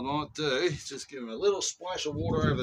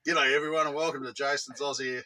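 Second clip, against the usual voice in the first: upbeat intro retake; 3 dB louder than usual. Shown as a demonstration.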